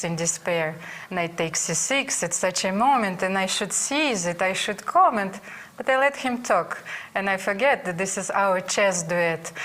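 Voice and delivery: reciting a little rhyming tribute; playful verse spoken evenly; rhymed poem recital. Acted. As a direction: read it like a proud homemade poem.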